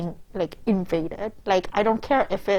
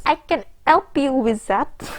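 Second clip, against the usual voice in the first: put-on higher, louder flirty French accent; 5 semitones higher, 4 dB louder than usual. A narrator's reading. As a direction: offer help in a seductive French accent. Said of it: "seductively alluring French accent".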